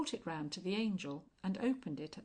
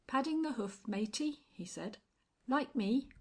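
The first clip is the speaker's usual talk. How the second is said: tramp voice; 6 semitones higher, 5 dB louder than usual. Acted. Tramp greeting the angel.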